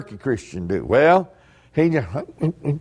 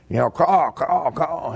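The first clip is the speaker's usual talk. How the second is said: crow caw imitation. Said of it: "Old crow comes along".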